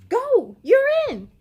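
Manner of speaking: loud, high call to the bench; coach shouting. Acted. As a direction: shout him into the game. Coach calls player onto court.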